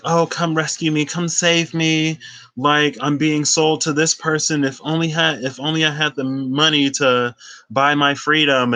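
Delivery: mock-pleading anime girl asking for money; pleading damsel. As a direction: play the helpless girl begging to be rescued. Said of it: "And she was like".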